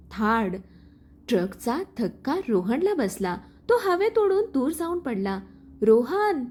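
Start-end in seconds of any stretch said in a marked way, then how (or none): 5.8-6.4 a louder, strained cry of his name; anguished cry of Rohan's name; scream of his name. A narrator's reading. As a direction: cry out as he falls. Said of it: "सानिकाच्या किंकाळीने रस्ता हादरला".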